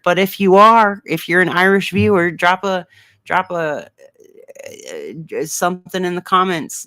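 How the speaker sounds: a light, playful mock Irish accent. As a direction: put on a hint of Irish for the Irish viewers. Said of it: "I'll never do my Irish accent again".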